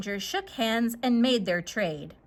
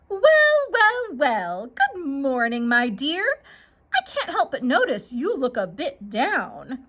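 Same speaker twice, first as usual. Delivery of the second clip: sly stranger. Acted. Stranger character voice.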